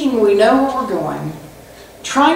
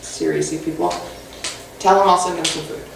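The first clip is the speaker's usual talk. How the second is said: exasperated God; 5 semitones lower than usual. Retold or imitated. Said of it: "And God's like".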